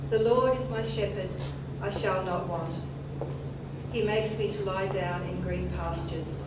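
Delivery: solemn, measured scripture reading; psalm reading. Acted. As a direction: read it reverently, like at a funeral. Reads the twenty-third Psalm.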